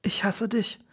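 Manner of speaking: very soft, voiceless whisper; whispered hatred. A narrator's reading. Battered man to the lover who smiles, whispered hatred. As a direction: whisper the accusation under your breath. Beaten lover accuses the one smiling.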